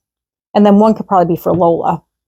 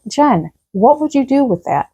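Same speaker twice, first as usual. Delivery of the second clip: mock-sarcastic daughter's question, pitched up; 4 semitones higher than usual. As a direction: imitate a daughter's sarcastic jab. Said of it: "I said it sarcastically like that".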